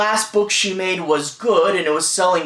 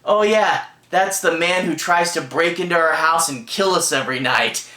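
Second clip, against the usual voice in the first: mock-casual husband, barely acted; nonchalant. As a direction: toss it off like routine news. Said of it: "the way he nonchalantly goes".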